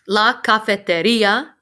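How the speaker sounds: La cafeteria with the stress on the i, caf-e-te-RI-a. Shown as a demonstration. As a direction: lean on the I in cafeteria, rising. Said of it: "Your emphasis is on the I in this word".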